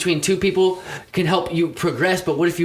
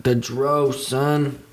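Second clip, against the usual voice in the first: put-on Italian accent. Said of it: "Keep going with that accent".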